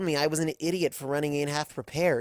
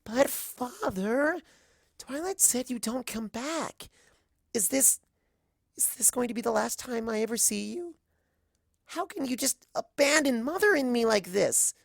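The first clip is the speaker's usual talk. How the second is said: put-on high, pleading child's voice on the edge of tears; wavering, near tears; 9 semitones higher than usual. A narrator's reading. Daughter begging her father not to leave, near tears. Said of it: "Her voice begins to waver".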